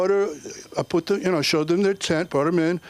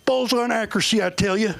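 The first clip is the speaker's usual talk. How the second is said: Southern armorer. Retold or imitated. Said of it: "And he goes".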